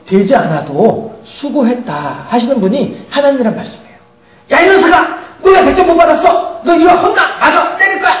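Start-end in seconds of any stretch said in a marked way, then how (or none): 1.2-2.3 soft, slow, quiet "수고했다"; gentle praise. Retold or imitated. God softly praising a child, slow and quiet. 4.5-8.1 high, sharp mock scolding; scolding parent. Preacher mimics a harsh parent scolding a child, high and mock angry.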